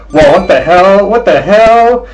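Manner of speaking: high, loud startled whoa; sudden high surprised yelp. Real, not acted. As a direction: caught off guard, delighted. Surprised by hype train.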